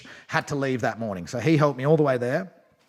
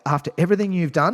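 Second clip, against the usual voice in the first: a little bit pissed; 6 semitones higher, 5 dB louder, faster than usual. Retold or imitated. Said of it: "A little bit pissed".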